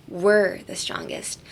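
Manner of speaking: we're held long and stressed. Shown as a demonstration. Host explains focus on us, stress on we're. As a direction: lean slowly on we're, then let the rest follow. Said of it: "focus on us".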